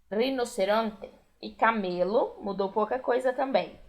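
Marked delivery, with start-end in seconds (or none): 0.1-1.1 rinoceronte with a rolled R and a clear E at the end, not I; Spanish pronunciation. Shown as a demonstration. Teacher modelling Spanish for Brazilian students, trilled R. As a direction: trill the R in rinoceronte and keep the final E open. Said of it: "O R vibrado".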